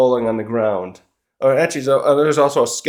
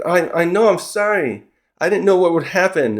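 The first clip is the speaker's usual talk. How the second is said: higher-pitched, lightly acted apology; retold pleading apology; 4 semitones higher than usual. Saturn apologizes to Imu, mild mock pleading. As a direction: plead a little, as if retelling it.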